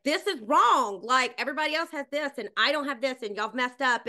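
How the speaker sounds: loud and high, stand your ground; standing up for myself. Retold or imitated. To the production crew, demanding a fair spot, loud and firm. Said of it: "stand up for myself and be like".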